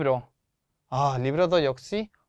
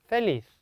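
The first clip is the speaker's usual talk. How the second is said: 펠리스 raised on 리스; stress on last syllable; 5 semitones higher than usual. Shown as a demonstration. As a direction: push the final syllable 리스 in 펠리스. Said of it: "마지막 음절에 강세가 들어가요". (펠리스의 '리스'에 강세)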